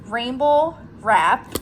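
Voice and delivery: mushy, mumbled words like marbles in mouth. Real, not acted. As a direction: say it as if marbles fill your mouth. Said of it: "like I had marbles in my mouth".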